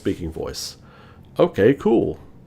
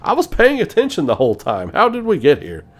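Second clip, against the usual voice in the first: disbelief; 11 semitones higher, faster than usual. Real, not acted. Baffled by the game's ending.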